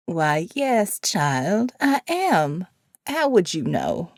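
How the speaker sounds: put-on a sweet, frail elderly nun; kindly old woman.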